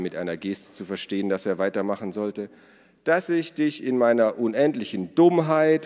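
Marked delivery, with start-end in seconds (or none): 3.0-5.8 high, loud overblown contrition; theatrical, insincere apology; mock-solemn apology. A narrator's reading. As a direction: overplay the grovelling. Forced, overdone apology continues.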